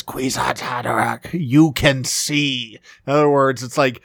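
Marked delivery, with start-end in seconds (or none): 0.0-2.8 slow, drawn-out crone voice; lightly voiced old crone. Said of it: "of this kinda old crone voice".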